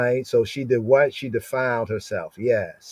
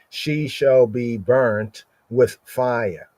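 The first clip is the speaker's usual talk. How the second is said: slow scripture reading; much slower than usual. Shown as a demonstration. Reads verse aloud.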